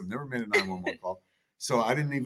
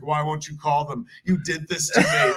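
mock accusation; 3 semitones higher, 5 dB louder than usual. Wife accusing him.

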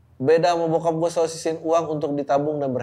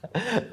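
short laugh; 7 semitones higher, 4 dB quieter than usual. Real, not acted. Laughs at own advice.

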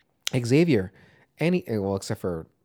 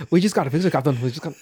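louder put-on British accent; mock British accent; 4 semitones higher, 4 dB louder than usual. Crewman on the Titanic to the Captain, mock British accent. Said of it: "he's trying to fix it".

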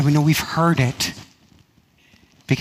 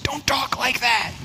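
Peter protesting; 10 semitones higher, 4 dB quieter, slower than usual. Retold or imitated. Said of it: "and Peter said".

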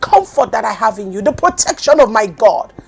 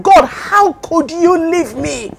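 tearful plea; 3 semitones higher, slower than usual. Retold or imitated. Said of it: "I said".

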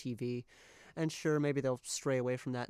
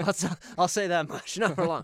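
loud, higher joking warning; mock threat; 5 semitones higher, 10 dB louder than usual. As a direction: raise your voice in a playful threat. Joking threat at staff Santa denier.

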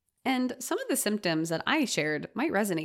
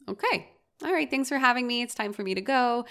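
polite goodbye; 4 semitones higher, faster than usual. Acted. Acts out polite early exit.

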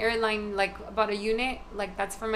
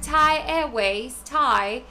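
slow British "Thai Airways", R dropped; British accent; 3 semitones higher, much slower than usual. Retold or imitated. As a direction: imitate a British caller saying "Thai Airways", drawn out. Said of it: "He's British".

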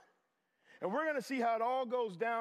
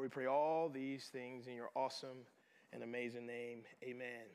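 earnest prayer. Real, not acted. Pastor praying over the congregation before teaching, earnest prayer. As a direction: pray it over the congregation, unhurried at the close.

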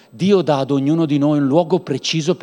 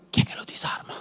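hushed unvoiced aside; whisper; 10 dB quieter, faster than usual. Real, not acted. Preacher joking aside to the congregation, whispered. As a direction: whisper it as a conspiratorial joke.

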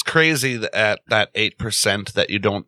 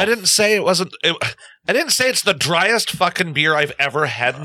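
frustrated yell; 5 semitones higher than usual. Real, not acted. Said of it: "didn't mean to yell".

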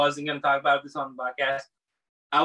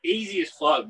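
high-pitched boast; 10 semitones higher than usual. Acted. Exaggerated boast.

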